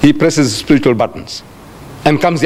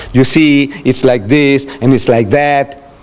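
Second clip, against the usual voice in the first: mock stalling, a little lower; fumbling for thoughts; 4 semitones lower, slower than usual. People with no ready answer, fumbling. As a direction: imitate someone beating around the bush. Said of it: "we fumble to gather our thoughts".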